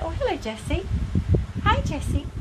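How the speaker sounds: high, soft cooing to the dog; sweet talk to a pet. Real, not acted. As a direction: coo hello to a pet. Greeting her pet dog.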